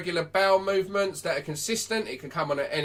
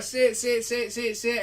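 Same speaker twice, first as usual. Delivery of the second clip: flustered owner; 6 semitones higher, slower than usual. Acted. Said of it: "And then you, like".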